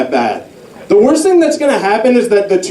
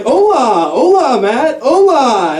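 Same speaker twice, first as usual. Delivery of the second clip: annoying coworker; 6 semitones higher, slower than usual. Retold or imitated. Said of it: "and he was like".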